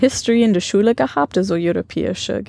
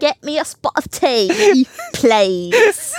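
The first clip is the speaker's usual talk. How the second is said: put-on British accent; 7 semitones higher, slower than usual. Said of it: "British English?".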